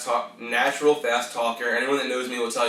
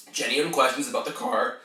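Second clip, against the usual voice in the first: voice crack. Real, not acted. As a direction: voice cracking mid-phrase. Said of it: "Ooh, voice crack".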